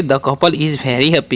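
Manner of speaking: very slow, word by word English; slow dictation. Shown as a demonstration. Teacher to students, slow dictation. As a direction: spell it out slowly for the class.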